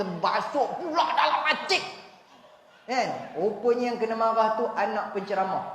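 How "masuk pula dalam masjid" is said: higher, mock-angry scold with a laugh; mock the caretaker's grumble, half laughing; imitated scolding. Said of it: "Pakcik yang marah tu kata". (tiruan pak cik merungut sambil ketawa)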